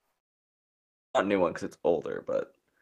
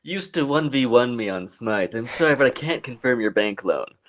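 mock banker voice; 3 semitones higher, 3 dB louder than usual. Imagined banker denying loan.

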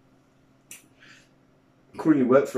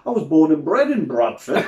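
light mock broad Yorkshire accent, rising on "bred". Retelling the imam switching to a Yorkshire accent. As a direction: imitate a Bradford man's Yorkshire accent lightly. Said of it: "he put his massive Yorkshire accent".

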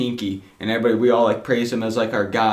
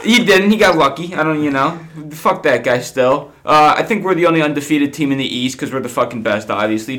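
put-on Philly accent; 3 semitones higher than usual. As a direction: mouth off like a Philly fan. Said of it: "Is this supposed to be my Philly accent time?".

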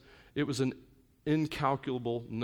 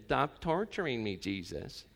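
a lightly voiced demon begging, then falling away; mock whining demon; 2 semitones lower, 6 dB quieter, slower than usual. Preacher imitates a demon pleading with Jesus, mock whine. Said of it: "the demon started whining and crying".

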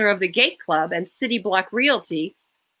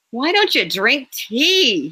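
grumbling; 3 semitones higher, slower than usual. Acted. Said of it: "he grumbled".

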